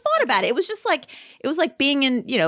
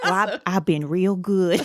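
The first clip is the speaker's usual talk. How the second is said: put-on Appalachian accent. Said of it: "portray two ladies in an Appalachian beauty parlor".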